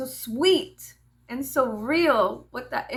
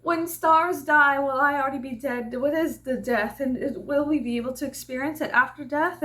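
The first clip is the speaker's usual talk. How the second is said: put-on child's wondering; 4 semitones higher than usual.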